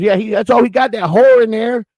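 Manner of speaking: put-on high Southern old-lady griping. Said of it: "a nice old lady answered the door with a southern accent".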